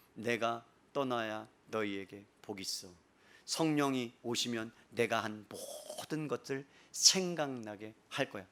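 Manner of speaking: low, soft, slow voice of Jesus; solemn promise. Acted. Jesus telling disciples the Spirit will come, solemn promise. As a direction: promise it slowly and quietly.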